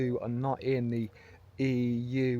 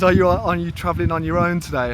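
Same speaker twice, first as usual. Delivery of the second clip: louder, higher mock Scandinavian accent; put-on Scandinavian accent, pitched up; imitated local accent; 5 semitones higher, 11 dB louder than usual. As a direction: play the guard in a Scandinavian accent. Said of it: "I love the bloody accent".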